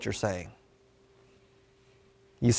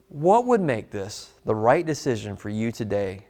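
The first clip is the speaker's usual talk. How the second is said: slow, low conversational; 6 semitones lower than usual. Shown as a demonstration. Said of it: "how I'm just conversational".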